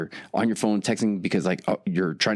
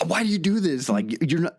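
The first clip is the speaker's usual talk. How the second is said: higher, mock-exasperated wife; 8 semitones higher than usual. Husband mimics fed-up wife scolding him over the cart, higher and exasperated. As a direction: play the fed-up wife, pitched up.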